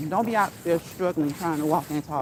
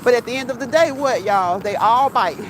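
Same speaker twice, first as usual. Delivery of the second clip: much louder, emphatic punchline; 3 semitones higher, 8 dB louder than usual. Real, not acted. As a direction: punch the joke out loud. Punchline about dogs.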